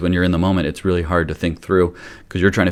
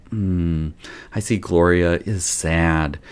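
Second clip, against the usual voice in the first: slow, a touch of sadness mirrored back; matching her sad tone; much slower than usual. Shown as a demonstration. Parent to sad daughter Gloria, lightly mirrored sadness. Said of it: "take a little bit of their tone too".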